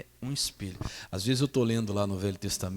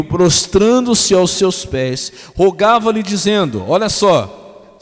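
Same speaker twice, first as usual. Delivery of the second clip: loud, high scripture reading; preaching at full force; 5 semitones higher, 14 dB louder, slower than usual. Acted. Pastor reading verses aloud to the congregation, preaching. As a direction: proclaim the verses to the church.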